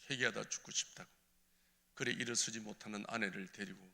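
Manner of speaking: normal talking voice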